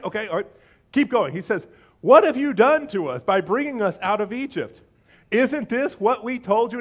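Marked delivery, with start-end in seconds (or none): 2.0-6.8 finger-wagging. Acted. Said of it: "Here's the finger wagging".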